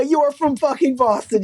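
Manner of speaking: exasperated mock scolding; mock indignation.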